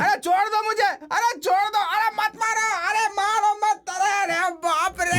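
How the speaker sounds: high, wailing cries for mercy; desperate pleading. Acted. Uncle begging his brother-in-law to stop, wailing. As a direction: beg to be let go mid-beating.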